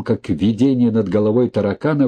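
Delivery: ordinary delivery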